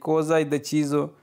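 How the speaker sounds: very slow, each syllable clear; slow model sentence. Shown as a demonstration. Teacher reading the Italian phrase for students, very slow. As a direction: read it out slowly for learners to repeat. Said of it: "कोई बंदा मुझे इस तरह आंदा है".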